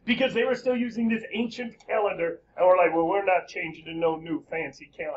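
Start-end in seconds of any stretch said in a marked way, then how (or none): 2.9-5.2 mock stubborn Russians with a southern twang; folksy southern accent, slightly lower. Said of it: "Russians just got a southern accent".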